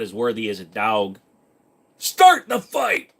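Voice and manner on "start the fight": mock battle cry. Streamer mock-riles up chat.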